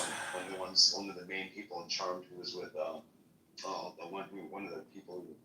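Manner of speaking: talking through a toothbrush; while brushing teeth. Real, not acted. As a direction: mouth full of toothpaste. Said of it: "sorry, I'm brushing my teeth".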